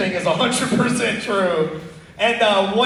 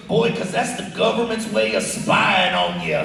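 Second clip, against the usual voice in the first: redneck dad. Retold or imitated. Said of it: "His honest answer was this".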